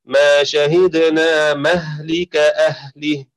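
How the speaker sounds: slow, drawn-out tajweed recitation; Quran recitation. Shown as a demonstration. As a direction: recite it slowly, as in prayer. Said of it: "وفي سورة النمل". (تلاوة مرتلة بطيئة)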